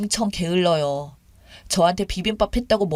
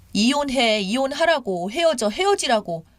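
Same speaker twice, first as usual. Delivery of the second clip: mild mock yell, higher pitched; understated, raised-pitch harangue; retold yelling; 3 semitones higher than usual. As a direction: imitate a mother-in-law's repeated demands. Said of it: "소리 지르시더라고요".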